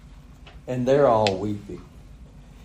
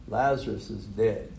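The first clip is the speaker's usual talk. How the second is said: plainly told; 3 semitones lower, 6 dB quieter than usual. Retold or imitated. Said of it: "he just plainly tells them".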